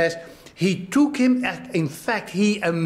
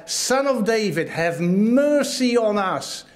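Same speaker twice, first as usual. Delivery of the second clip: pleading cry; 4 semitones higher than usual. Retold or imitated. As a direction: cry out in earnest appeal, stretching the words. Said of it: "they are crying out and saying, they're pleading with him".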